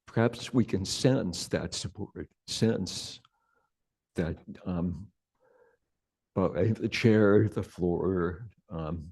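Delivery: unhurried meditation guidance with long pauses; guided meditation. Real, not acted. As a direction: gently guide them into sensing the body, leaving space between phrases.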